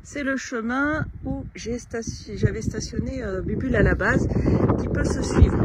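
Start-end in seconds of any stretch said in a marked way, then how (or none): 3.2-5.6 shouting over wind. Real, not acted. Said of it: "Voilà le vent, je suis désolée".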